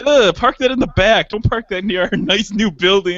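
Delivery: snooty colleague waving him away; disgusted coworkers. Retold or imitated. Coworkers quoted sneering.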